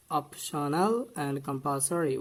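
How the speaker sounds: slow "optional" with a clear p, "compulsory" stressed on PUL; deliberate model of "optional and compulsory"; correct pronunciation. Shown as a demonstration. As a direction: spell out "optional" as OP-sho-nal, "compulsory" as kum-PAL-so-ri. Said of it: "We should say".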